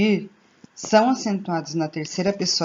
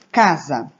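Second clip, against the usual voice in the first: casa with a louder first syllable CA; stress on CA; 3 semitones lower, 4 dB louder than usual. Shown as a demonstration. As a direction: hit CA in casa, let za drop away. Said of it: "Ca é a sílaba tônica". (casa com a sílaba tônica forte no CA)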